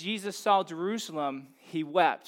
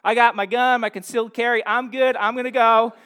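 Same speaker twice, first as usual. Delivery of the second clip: mock tough bravado; 6 dB louder than usual. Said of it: "some of you are like".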